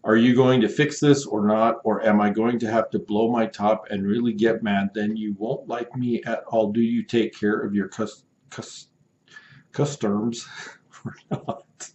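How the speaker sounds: angry buyer threatening the seller, mock indignant; mock angry customer. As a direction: play the buyer about to blow his top. Angry customer message read aloud.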